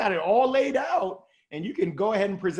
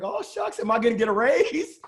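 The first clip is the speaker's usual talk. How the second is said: mock hopeful surprise; 3 semitones higher than usual. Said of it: "I was like".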